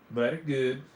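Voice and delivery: "Very" said as "vairy", European style; continental european accent. Pretend. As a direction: put a European accent on "Very good". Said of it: "talks in a European accent".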